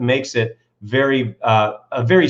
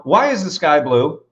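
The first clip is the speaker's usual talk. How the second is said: slow question; 2 semitones higher than usual. Shown as a demonstration. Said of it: "if I ask you right now".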